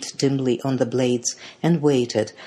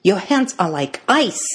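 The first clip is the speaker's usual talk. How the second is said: raised-pitch cry of concern; alarmed exclamation; 5 semitones higher, 4 dB louder than usual. A narrator's reading. Twins feel sister's cold hands, alarmed exclamation.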